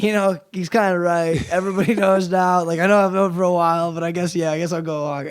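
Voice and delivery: shrugging Lori. Retold or imitated. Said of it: "And then Lori's like".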